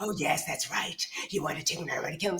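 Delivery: dark, menacing, creeping whisper. Voicing the whispers a character hears in the game: ominous whisper. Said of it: "these ominous whispers are".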